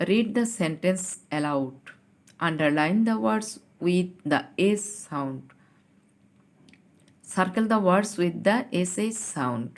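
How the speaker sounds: slow, deliberate reading of the instruction; slow classroom reading; slow read-aloud. Shown as a demonstration. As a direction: read each word slowly for children. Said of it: "দেখো কি বলেছে".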